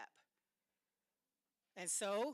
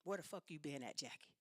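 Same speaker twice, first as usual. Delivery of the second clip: menacing demand; 5 semitones lower, 5 dB quieter than usual. Retold or imitated. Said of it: "he just immediately demanded".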